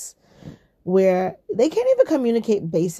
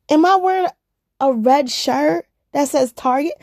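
loud, high sarcastic retort; 7 semitones higher, 8 dB louder than usual. Retold or imitated. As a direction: scoff at the question, exasperated.

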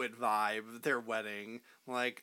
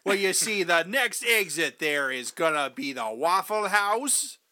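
put-on Minnesota accent; 3 semitones higher than usual. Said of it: "That's Minnesota".

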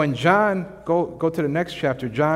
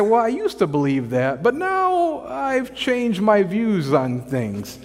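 mock caving; 4 semitones higher than usual. Mocking caving politician.

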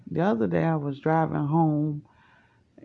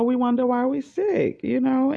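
emphatic repeat; 8 semitones higher than usual. Real, not acted. Repeating her point louder.

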